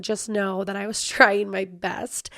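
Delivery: breathy half-laughing whisper. Real, not acted. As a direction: whisper it apologetically. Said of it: "whispered apology".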